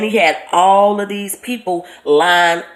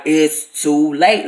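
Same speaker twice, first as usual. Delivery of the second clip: roaring voice; 3 semitones lower, much slower than usual. Retold or imitated. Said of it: "I don't even wanna say it was a roar".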